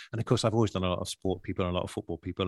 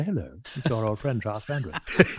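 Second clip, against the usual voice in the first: Giles Brandreth. Retold or imitated. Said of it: "ring people up and say".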